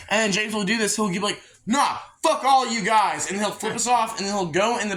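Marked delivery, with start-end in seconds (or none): 1.7-3.3 slow, higher mock drunken defiance; belligerent drunk. Drunk James flipping off his friends, imitated belligerence. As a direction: drag it out like a sulky belligerent drunk. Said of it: "getting belligerently fucking drunk as fuck".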